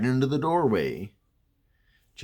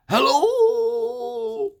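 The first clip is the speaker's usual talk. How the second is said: high, loud call into the house; 7 dB louder than usual. Retold or imitated. Narrator calls into the dark house to check.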